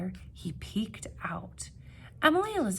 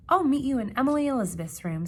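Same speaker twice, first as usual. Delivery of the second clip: fast, louder hurried call; 5 semitones higher, 6 dB louder, much faster than usual. Acted. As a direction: rush the words while fleeing. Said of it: "said Norval".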